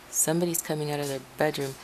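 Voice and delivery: hushed, under the breath; quiet. Real, not acted. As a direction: keep it down so nobody hears. Lowering voice for passing neighbour.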